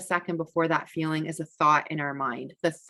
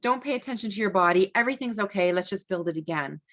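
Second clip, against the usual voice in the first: dismissive hushing; 2 semitones higher, faster than usual. Retold or imitated. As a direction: hurry him past the feelings. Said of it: "I'm saying".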